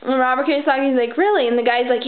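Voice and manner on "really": a higher, raised "Really?"; mock surprise. Kiyosaki answering his stressed friend, mock surprise. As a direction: sound doubtful and surprised.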